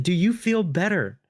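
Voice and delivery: slow smug drawl; cocky taunt. Retold or imitated. Salesman repeating the question to the homeowner, slow smug taunt. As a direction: stretch it out to needle him.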